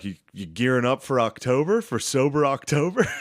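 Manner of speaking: mock fanboy, pitch lifting on the question; fannish question. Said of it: "fanned out and asked him".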